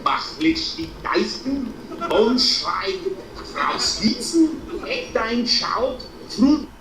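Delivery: high, slow mock German gibberish; hammed-up fake German commands. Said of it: "I'll speak to you now in fake German".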